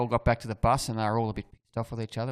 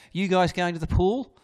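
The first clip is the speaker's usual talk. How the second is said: calling out across the hotel, a touch louder; mild retold yell; 7 semitones higher, 5 dB louder than usual. Coach calling to players, mild mock yell. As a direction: shout it lightly to the team. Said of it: "Phil yells out".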